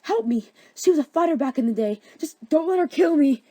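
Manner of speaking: hammed-up frightened kid begging protection; childlike cry for help. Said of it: "cried out for help like a child".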